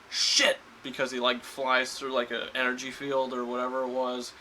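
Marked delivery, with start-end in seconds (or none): 0.1-0.6 sharp, much higher yelp of a curse; retold curse. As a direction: blurt it out high and loud. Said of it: "Tony Stark in the movie says".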